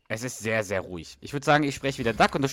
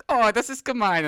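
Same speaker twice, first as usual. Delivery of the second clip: put-on 1 pouty girl voice; 12 semitones higher, 5 dB louder than usual. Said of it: "Und der Spence".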